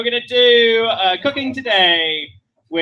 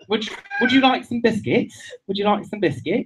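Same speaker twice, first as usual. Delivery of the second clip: put-on British accent; 2 semitones higher, 3 dB quieter than usual. Shown as a demonstration. Comic demonstrating the basis of Australian, British accent. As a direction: offer it in a polite mock British accent. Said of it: "just the British accent".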